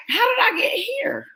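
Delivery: a dazed, high-pitched what-happened; confused disbelief. Retold or imitated.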